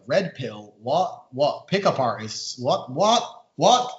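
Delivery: puzzled questions, starting low and climbing at the end; baffled newcomer replaying his confusion; retold bafflement. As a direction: act out mild disbelief, each "what" a question. Retold baffled first reaction.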